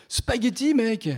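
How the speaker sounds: plus haut, « Spaghetti » lancé avec triomphe; exclamation ravie. Acted. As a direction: comme une trouvaille géniale. Il trouve sa cravate. (petit cri de joie)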